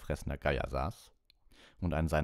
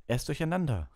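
high, raised teacher's call; 10 semitones higher, 4 dB louder than usual. A narrator's reading. Lupin tells the class about the Boggart, calling out. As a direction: call it out to the whole room. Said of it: "rief Lupin".

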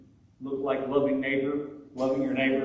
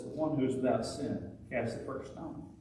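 softer, gentle and unhurried; voice of the Lord; 5 dB quieter than usual. Retold or imitated. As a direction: speak it tenderly as the Lord. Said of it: "The voice of the Lord says".

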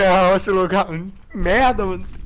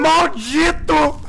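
slow, loud cursing cry; drawn-out curse; 10 semitones higher, 5 dB louder, much slower than usual. Real, not acted. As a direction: stretch the curse out. Cursing the monster.

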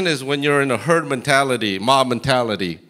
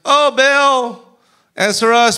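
high, loud call to Baal; shouting prayer; 10 semitones higher, 7 dB louder, slower than usual. Acted. Prophets calling to Baal all morning, loud pleading. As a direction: plead with the idol at full voice.

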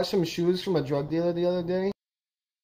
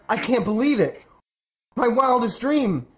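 pitched-up, savouring disbelief; amazed delight; 5 semitones higher than usual. Acted. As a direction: play a wish just come true. Man's wish to be famous granted.

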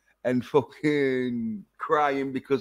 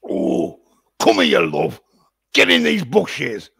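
louder, leering sleazy invite; mock creepy come-on; 2 semitones higher, 6 dB louder than usual. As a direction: play the sleazy creep calling her over. Acts creep luring woman.

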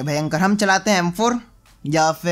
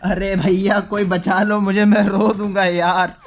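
hammed-up whine about to cry; mock crying; slower than usual. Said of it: "भाई, मैं रो रहा हूँ". (नकली रोने वाली आवाज़)

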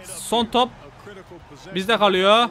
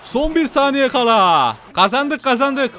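excited victory; 4 semitones higher, 3 dB louder, slower than usual. Real, not acted. Winning the game.

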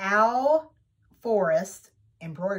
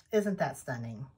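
hushed awe; 6 semitones lower, 7 dB quieter than usual. Real, not acted. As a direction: lower and much softer, almost breathless. Repeats the question, hushed.

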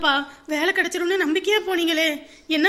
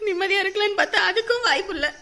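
tearful lament. Acted. Mother laments son's lost job.

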